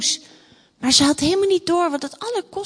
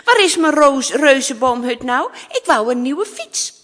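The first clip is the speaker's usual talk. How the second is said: spoilt princess complaining, loud opening; impatient; 6 dB louder than usual. Acted. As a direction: demand it like an impatient child. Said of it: "zei ze ongeduldig". (ongeduldig mopperend prinsesje)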